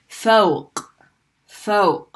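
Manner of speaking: fawq ending in a sharp throat catch; choking-like qaf ending. Shown as a demonstration. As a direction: push air against the blocked back of the throat. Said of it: "sound that you would make if you were choking".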